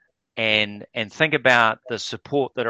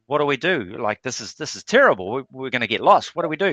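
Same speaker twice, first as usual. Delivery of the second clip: mock panic; 2 semitones higher, faster than usual. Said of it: "He starts panicking".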